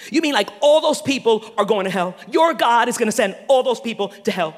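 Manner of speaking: mock-incredulous talk show host, leaning on key words; incredulous challenge. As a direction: spin it as an accusing question. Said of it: "That's how they talk".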